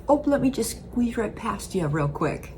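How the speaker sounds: light Midwestern polite chirp; a hint of Midwest politeness, squeezing past; apologetic Midwest accent, lightly done; Midwest ope. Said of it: "you'll be like".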